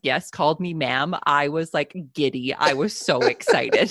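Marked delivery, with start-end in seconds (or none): 2.5-3.9 louder, breaking into a laugh; laughing delight. Real, not acted. Guest tickled at being called ma'am, laughing. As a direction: laugh as you finish the line.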